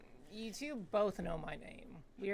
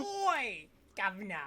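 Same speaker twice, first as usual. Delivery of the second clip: put-on British accent; 5 dB louder than usual. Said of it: "so he's definitely British".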